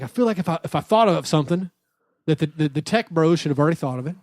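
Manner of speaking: lightly imitated Tennessee accent; Southern accent. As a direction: quote an older man with a hint of the South. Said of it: "with a deep Southern accent".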